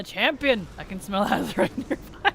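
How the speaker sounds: attempted Magni accent. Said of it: "I don't do that accent very well".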